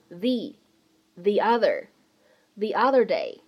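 the said as thee, slowly; slow thee other day; the before a vowel. Shown as a demonstration. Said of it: "定冠词the需要读成the".

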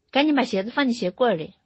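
a touch of harsh impatience; imitated stern command. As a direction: mimic a gruff dad ordering a child. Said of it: "他就是会很凶的说".

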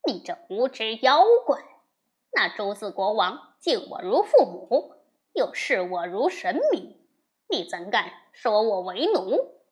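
loud furious rebuke; angry scolding. Acted. Wukong cursing the demon king, loud and angry. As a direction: roar the threat at the demon. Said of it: "悟空骂道".

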